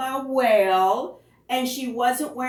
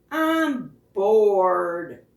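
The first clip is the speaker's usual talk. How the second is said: moody fish; 6 dB louder than usual. Acted. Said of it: "said the fish".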